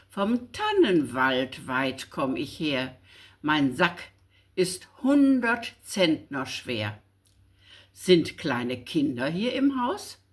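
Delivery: measured, rhythmic reading of a Christmas poem; poem recitation. Acted. Reading an old schoolbook poem to listeners before Christmas, recited. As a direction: recite it like Knecht Ruprecht, steady and rhyming.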